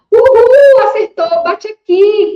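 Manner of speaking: high, loud whooping cheer; celebrating. Acted. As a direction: cheer a child's right answer with a party whoop. (comemoração animada, aguda e forte)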